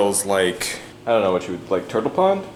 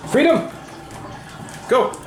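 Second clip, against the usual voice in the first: triumphant shout; 12 semitones higher than usual. Acted. Dog voiced escaping.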